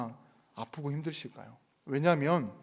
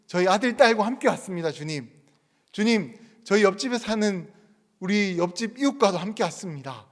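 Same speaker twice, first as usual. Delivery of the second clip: proud answer; 4 semitones higher, 6 dB louder than usual. Acted.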